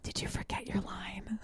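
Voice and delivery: soft unvoiced whisper. Shown as a demonstration. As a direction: lean in and whisper it. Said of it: "whisper to them".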